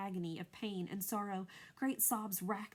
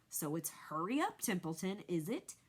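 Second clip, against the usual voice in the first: mocking imitation of Wilbur. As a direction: parrot him to make fun. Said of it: "He began imitating Wilbur's voice".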